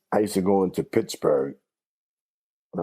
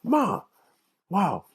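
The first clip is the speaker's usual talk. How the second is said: put-on a light, higher boyish tease; teasing child voice; 11 semitones higher than usual. Boy teases his mother on the subway, lightly higher voice. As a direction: needle his mother gently. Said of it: "I said".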